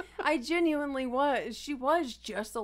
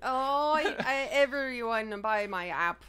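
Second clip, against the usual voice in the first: put-on Russian accent. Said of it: "Russian accent".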